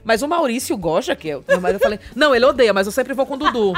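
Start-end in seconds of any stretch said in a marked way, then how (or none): 2.1-3.7 laughing through it. Retold or imitated. Retelling naive reply, laughing.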